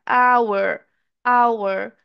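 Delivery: "hour" slowly, starting on the vowel; silent H. Shown as a demonstration. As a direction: model "hour" as "our", no H. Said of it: "Esse sonzinho aqui".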